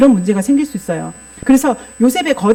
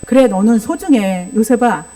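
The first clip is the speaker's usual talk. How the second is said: gentle fatherly reassurance. Shown as a demonstration. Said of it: "야곱은 어떻게 조율했어야 할까요".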